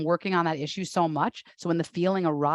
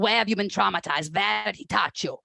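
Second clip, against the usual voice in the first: put-on German therapist accent. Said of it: "It's very severe".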